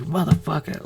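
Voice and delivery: hushed, shocked whisper; whispered mock curse. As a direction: breathe the curse like a scared viewer.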